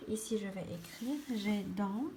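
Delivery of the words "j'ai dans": word by word with long pauses; slow, broken-up dictation; dictating while writing. Shown as a demonstration. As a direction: say each word as you write it. Saying words while writing them.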